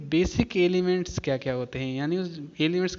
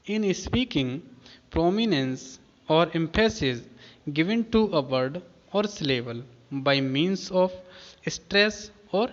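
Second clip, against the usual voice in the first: measured, deliberate textbook read; formal definition read aloud with pauses; much slower than usual. Shown as a demonstration. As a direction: read the English definition out word by word. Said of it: "क्या कहता है ये जो definition है".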